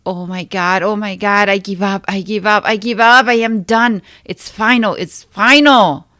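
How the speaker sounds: loud, high screaming that she gives up; anguished scream. Acted. On her knees after the shower, screaming in surrender. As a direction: scream it out, cracking with despair. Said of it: "I screamed extremely vocal".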